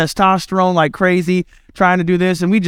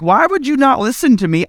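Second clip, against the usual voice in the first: higher, slow, drawn-out parent insisting; mock-stern parent, pitched up and slowed; exasperated parent; 5 semitones higher, slower than usual. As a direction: outlast the kid, word by word. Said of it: "And you look at".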